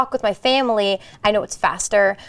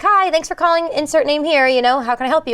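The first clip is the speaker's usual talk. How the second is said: receptionist phone greeting; 4 semitones higher than usual. Retold or imitated. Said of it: "I was like".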